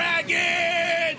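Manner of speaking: high, loud shout of dragons; excited shout. Real, not acted. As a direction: call it out big. Hype call as dragons deploy.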